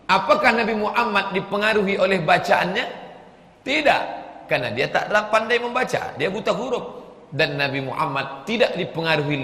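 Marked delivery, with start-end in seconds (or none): 3.6-4.0 sharp, high, loud no; emphatic no. Acted. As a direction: slam the answer down hard. Answers his own rhetorical question.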